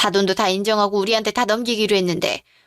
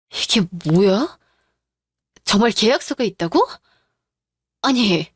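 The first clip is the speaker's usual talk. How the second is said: stunned disbelief; 2 semitones lower than usual. Acted. Wife stunned at the contract.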